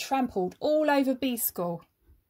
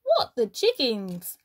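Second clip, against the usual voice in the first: shocked gasp. Acted. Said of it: "gasped all the little bees".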